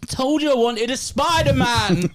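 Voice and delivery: put-on high, slow whiny kid; child voice. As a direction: whine like a little kid. Child voice for face paint.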